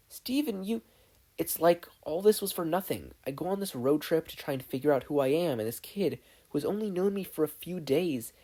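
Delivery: high, distressed and halting; upset boy. Acted. Steven confessing his fear to Connie, distressed. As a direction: pour it out, fading to defeat.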